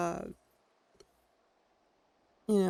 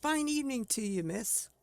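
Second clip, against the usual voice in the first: polite innkeeper; 3 semitones higher than usual. Retold or imitated. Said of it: "see what he says".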